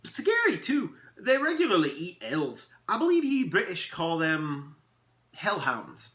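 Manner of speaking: high, loud elf voice; dramatic elf describing a beast; warning elf. Acted. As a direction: play up the danger with relish.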